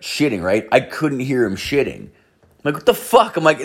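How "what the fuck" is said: high-pitched incredulous outburst; mock bewildered reaction, pitched way up; baffled disbelief. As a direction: squeak it out in retold disbelief. Retold baffled reaction to stranger.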